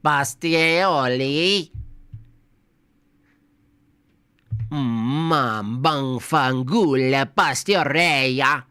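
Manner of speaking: slow, drawn-out fake Italian gibberish; hammy Italian accent mangling the word; mock Italian accent. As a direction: ham it up like a stage Italian. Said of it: "in an Italian accent".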